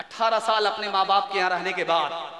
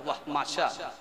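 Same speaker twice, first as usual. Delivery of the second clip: soft delighted praise; 8 semitones lower, 5 dB quieter than usual. Acted. Bride praises father-in-law.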